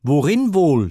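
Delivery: narrated god shouting in fury; angry shout. A narrator's reading. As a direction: fling it at him in anger. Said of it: "schrie ihm Hermes zornig zu".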